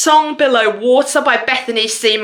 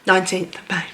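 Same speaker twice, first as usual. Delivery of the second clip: giggling; 4 semitones lower, 5 dB quieter than usual. Real, not acted. Giggling at the date.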